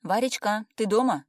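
громко, выше, на весь дом; окликнуть подругу из прихожей; зовёт из прихожей. A narrator's reading. Зовёт подругу, войдя в квартиру. (громкий оклик из прихожей)

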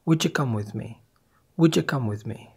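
Would you said as "wutcha"; connected wutcha come with me; linked would you. Shown as a demonstration. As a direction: join d and y into ch. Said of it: "فبنقول".

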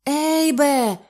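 high, loud half-fainting cry; fainting wail. Acted. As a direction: call him as if about to faint. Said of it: "волала напівзомліла Любонька". (напівзомліле волання)

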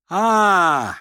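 high, loud cry of notice; sharp exclamation. A narrator's reading. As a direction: burst out on seeing him. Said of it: "воскликнула она".

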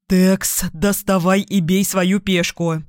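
breathless running shout; out of breath shout. Acted. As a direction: yell while gasping for air. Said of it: "задыхаясь, крикнул Вик". (крик на бегу, задыхаясь)

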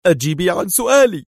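harsh command; sharp command. A narrator's reading. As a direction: snap at her to answer. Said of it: "صاح بها في حدة".

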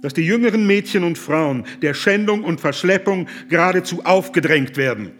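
indignant accusation. Acted. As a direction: hurl the charges at him with mounting indignation. Lepsius accuses the Pasha of atrocities.

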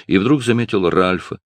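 usual speaking voice

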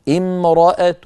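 امرأة with a faint u after the t; stop with rawm. Shown as a demonstration. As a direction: end امرأة on a weak -tu. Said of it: "فهي صوتها ضعيف". (الوقف على امرأة بالروم)

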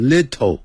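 "little" with a hard t, lit-toe; wrong little. Shown as a demonstration. 老师示范错误读音. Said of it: "不要念成little".

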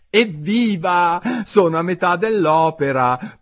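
high, loud cheer; high-pitched delighted outburst; jubilant. A narrator's reading. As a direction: celebrate in a girl's high voice. Alice cheering to herself.

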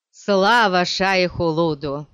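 slow, loud joyful exclamation; exclaiming. Acted. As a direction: cry out in relief. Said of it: "воскликнул Стилгар". (радостный возглас)

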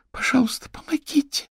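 high, small frightened plea; pleading little girl. A narrator's reading. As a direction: beg for help like a scared child. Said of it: "дрожащим голосом". (испуганная мольба маленькой девочки)

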